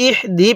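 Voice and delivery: ইহদি said quickly with a thin, airy h; ইহদি without a fully voiced h; incomplete h. Shown as a demonstration. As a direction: skim over the h in ইহদি. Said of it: "হাটা পরিপূর্ণ উচ্চারণ হলো না".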